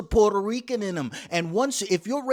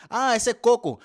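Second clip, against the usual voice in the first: neighbor recognizing; 6 semitones higher, 6 dB louder than usual. Retold or imitated.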